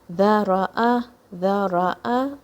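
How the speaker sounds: "ذرأ" as three distinct syllables, dha-ra-a; clear short vowels. Shown as a demonstration. Teacher saying listen to this, every fatha distinct in "ذرأ". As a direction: give each vowel of "ذرأ" its own beat. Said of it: "say all the harkas clearly".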